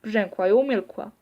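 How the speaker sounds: ordinary delivery, nothing marked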